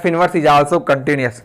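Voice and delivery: very slow, word by word, for note-taking; slow dictating teacher; slow dictation. Shown as a demonstration. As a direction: dictate the statement slowly so students can copy it. Dictating theorem English then Hindi.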